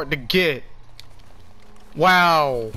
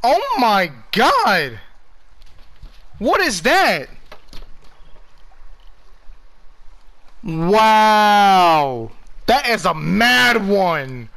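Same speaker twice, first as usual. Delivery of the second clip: excited; slower than usual. Real, not acted. Huge fish catch cutscene.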